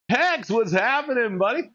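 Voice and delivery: high, loud friendly hail; loud greeting. Real, not acted. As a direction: call out to a buddy. Greeting chatter loudly.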